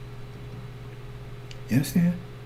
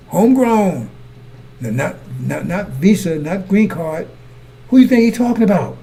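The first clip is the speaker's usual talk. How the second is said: loud, climbing preacher's cry, pitched higher; preaching shout; 3 semitones higher, 4 dB louder than usual. Real, not acted. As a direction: hammer it home to the congregation, louder and louder. Preacher rising to a climax.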